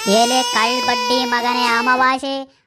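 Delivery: a mock sob through the insult; comic wailing curse. Father cursing Amavasya while wailing over his son. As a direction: ham it up, crying while cursing.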